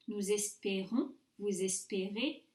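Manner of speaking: closed é in "espérons" and "espérez"; closed é demo. Shown as a demonstration. Teacher contrasts nous and vous for students, closed é in "espérons", "espérez". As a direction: keep the middle vowel of "espérons", "espérez" a tight ay. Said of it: "compared to nous and vous".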